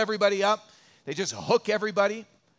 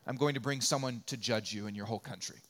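calm divine verdict; 6 semitones lower, 6 dB quieter, faster than usual. Retold or imitated. Voicing God's calm verdict.

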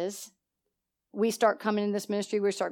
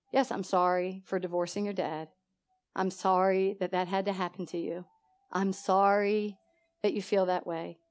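low, soft, unhurried apology; 3 semitones lower, 6 dB quieter than usual. Retold or imitated. Mother apologising to daughter for the divorce, soft voice. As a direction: take the blame gently and quietly. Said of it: "Make your voice soft".

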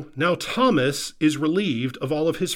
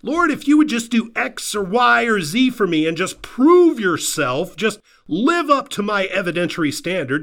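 mock prayer putting God to the test; demanding prayer; 2 semitones higher, 3 dB louder than usual. Acts out a bargaining prayer.

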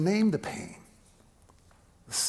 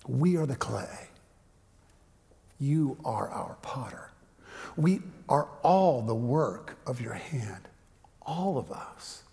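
slow, whispered "we are the clay"; hushed scripture reading; 3 semitones lower, slower than usual. Acted. A preacher reads Isaiah to his people, slow and whispered. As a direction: breathe the verse out like a prayer.

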